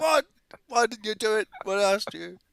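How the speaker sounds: high-pitched shouting.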